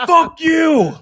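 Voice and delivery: high, loud drawn-out curse; imitated angry yell. Driver yelling at traffic worker, imitated angry yell. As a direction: yell it like a furious passing driver. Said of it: "was yelling at me".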